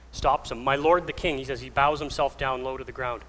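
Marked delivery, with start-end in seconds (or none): 0.6-1.4 mildly raised, louder call. Retold or imitated. David behind Saul outside the cave, calling out. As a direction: hail the king from behind, lightly projected. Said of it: "calls out".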